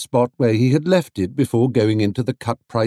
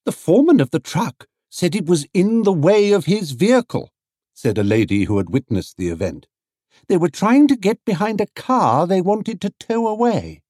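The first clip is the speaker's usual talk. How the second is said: higher gossipy lady; lady witness; 10 semitones higher than usual. A narrator's reading. Witnessing lady tells Paddington what happened, gossipy. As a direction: report it eagerly.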